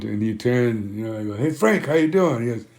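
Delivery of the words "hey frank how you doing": upbeat greeting. Retold or imitated. Acted greeting to dying friend.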